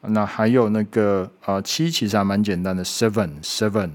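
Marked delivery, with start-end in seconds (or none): 2.8-3.9 seven with a clear v from lip and teeth. Shown as a demonstration. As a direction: bite the lip on the ven of seven. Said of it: "ven的声音也是V的声音". (seven的ven要咬唇发v音)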